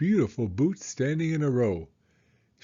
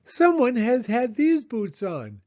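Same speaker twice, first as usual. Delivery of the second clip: much higher, louder huffy mama bear; huffing Mama Bear; 10 semitones higher, 5 dB louder than usual. Acted. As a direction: huff it as an offended mother bear. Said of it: "she huffed".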